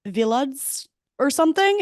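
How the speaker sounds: village said vilads; "vilads", the g turned to a buzzing dz; "vilads" with a dz sound at the end. Retold or imitated. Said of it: "It's like a D Z".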